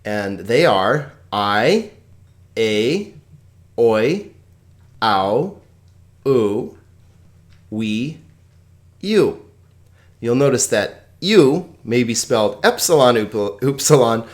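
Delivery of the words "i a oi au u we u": slow teacher drill; slow diphthong drill. Shown as a demonstration. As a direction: say each diphthong slowly with pauses. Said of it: "Here are the Greek diphthongs".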